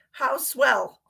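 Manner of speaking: breathy whispered aside. Real, not acted. Streamer to viewers, a wry whispered aside. Aside after a wrong answer.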